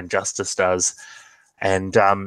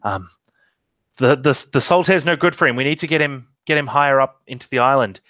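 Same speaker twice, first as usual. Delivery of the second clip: urgent Elamira; 4 semitones higher, 3 dB louder, faster than usual. Acted. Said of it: "And she's like".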